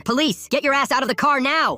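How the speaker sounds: high-pitched shouted order; police command. A narrator's reading. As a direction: shout a forceful arrest order. Police order at a car stop.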